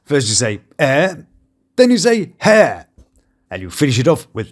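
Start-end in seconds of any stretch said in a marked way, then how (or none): 0.8-1.1 drawn-out posh British "Eh"; British accent, one isolated syllable. Shown as a demonstration. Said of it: "say hello in a delightful British accent". 2.4-2.9 loud mock-posh British "Hair"; exaggerated British accent, punched out. Shown as a demonstration. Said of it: "say hello in a delightful British accent".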